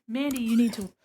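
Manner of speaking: voicing the sun. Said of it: "The sun has actually said".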